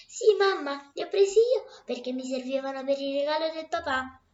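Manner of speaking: put-on little girl's voice. Little girl answers her mother.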